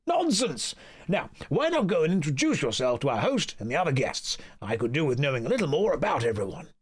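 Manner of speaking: high, gushing society friend; high flamboyant voice. Acted. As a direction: greet your friend, high and delighted. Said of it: "I'm gonna do the voices for every character".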